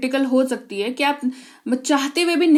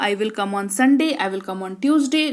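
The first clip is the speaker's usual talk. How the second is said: slow, a little lower; slow model answers; 3 semitones lower, much slower than usual. Shown as a demonstration. Teacher slowly models answers with different days. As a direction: give each day slowly. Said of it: "मैं रविवार को आऊँगा।".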